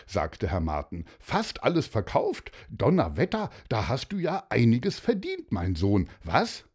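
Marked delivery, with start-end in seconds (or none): 1.2-6.6 impressed father. Acted. Father marvels at the sales.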